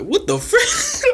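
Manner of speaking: very high, slow, laughing disbelief; a half-laughing what-the-heck; shocked. Retold or imitated. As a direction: squeal it out in stunned laughter. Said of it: "I'm like".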